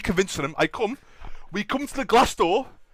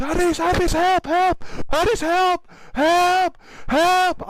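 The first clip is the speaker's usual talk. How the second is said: high, loud calls for help; urgent mimicked shouts for rescue; cries for help; 11 semitones higher, 7 dB louder, much slower than usual. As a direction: yell as if trapped behind glass. Acting trapped friends calling for help.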